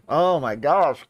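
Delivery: high, gushing fangirl squeal; thrilled, rising with each name; excited. Real, not acted. Excited about a singer's song.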